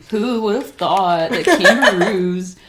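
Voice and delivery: a light hint of a TV narrator; mock documentary narrator. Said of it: "You should speak like that".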